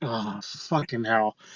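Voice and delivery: deep, slow, low, soft weary sigh. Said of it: "stops and sighs deeply".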